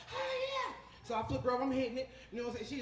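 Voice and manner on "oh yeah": very high mock moan of pleasure; imitated moaning woman. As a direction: moan it as the delighted lover. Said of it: "She's like".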